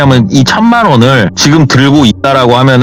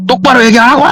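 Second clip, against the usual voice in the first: high-pitched shouted demand; acted furious bark, pitched very high; angry shout; 13 semitones higher, faster than usual. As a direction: yell at sister to come clean. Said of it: "소리를 막 지르니까는".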